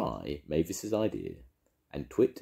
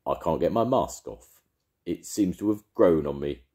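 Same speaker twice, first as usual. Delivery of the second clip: worried; 6 dB louder than usual. Acted. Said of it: "sounding a little worried".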